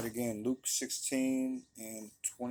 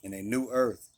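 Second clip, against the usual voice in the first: louder, deliberate reading of the verses; scripture reading; 3 dB louder than usual. Acted. Preacher reading Revelation to his listeners, steady and deliberate. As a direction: read it out like a pulpit reading.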